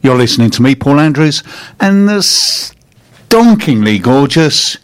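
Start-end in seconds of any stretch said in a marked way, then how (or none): 1.8-4.8 drawn out slow and high, teasing; playful drawn-out compliment. Real, not acted. Radio host teasing his co-host, slow, high, drawn out. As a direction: stretch each word out, slow and admiring.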